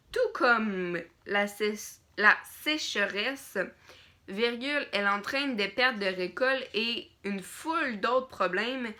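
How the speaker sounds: dictating. Shown as a demonstration. Reads a dictation with punctuation.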